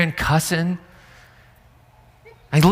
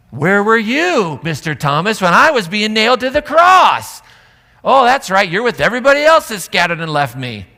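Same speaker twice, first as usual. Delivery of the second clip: indignant shout; 4 semitones higher, 6 dB louder than usual. Acted. Jesus confronting Thomas, a loud indignant shout. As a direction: hurl the question back at him.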